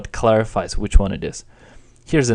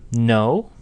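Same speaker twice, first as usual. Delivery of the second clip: rising question no. Shown as a demonstration. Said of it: "No in a rising tone".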